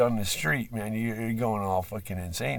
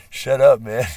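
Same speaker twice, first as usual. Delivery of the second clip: joking shout; 2 semitones higher, 11 dB louder than usual. Real, not acted. Laughing at himself, telling himself off.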